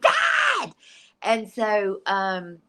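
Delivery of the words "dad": very high, indignant squawk; high-pitched mock outrage; mock-offended cry. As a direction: protest loudly at being teased. Mock protest at father's tease.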